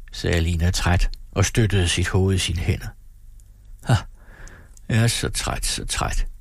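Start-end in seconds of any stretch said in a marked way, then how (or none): 3.8-6.3 yawning. Acted. Exhausted mother to her daughter, yawning. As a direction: let it sag into a yawn. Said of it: "fortsatte hun gabende".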